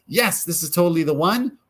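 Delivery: thrilled inner yes, acted out; excited realisation. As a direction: voice an excited gut yes, pitch lifted. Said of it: "responds with a sense of excitement".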